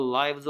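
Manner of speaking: "lives" said as "lyvz", rhyming with "fives"; long-i "lives". Shown as a demonstration. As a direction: say "lives" with an "eye" vowel. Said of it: "당연히 lives라고 읽어야죠".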